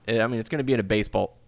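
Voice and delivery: hiccuping mid-sentence; with hiccups. Real, not acted. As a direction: speak through a hiccup. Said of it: "I got the hiccups now".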